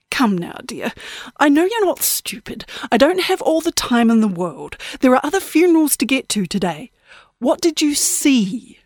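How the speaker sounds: put-on high, prim little-old-lady voice; a sweet, falsely polite granny. Old woman asking girl for the powder room, prim and high. Granny Death presses Lacey.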